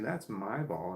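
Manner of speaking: hushed "That's my ball."; quiet version. Shown as a demonstration. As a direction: say it under your breath. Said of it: "I don't wanna say that too loud".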